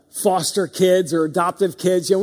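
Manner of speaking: usual speaking voice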